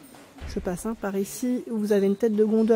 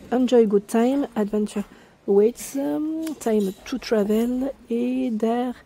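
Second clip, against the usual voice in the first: French-accented English; 3 semitones higher, slower than usual. Real, not acted. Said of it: "Désolée pour mon anglais".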